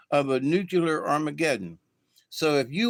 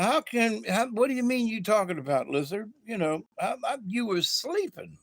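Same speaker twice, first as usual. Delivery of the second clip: higher-pitched, sputtering exasperation; mildly annoyed snake; 6 semitones higher than usual. Acted. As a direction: act out a slightly miffed snake, voice pitched up. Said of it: "Snake was getting a little annoyed".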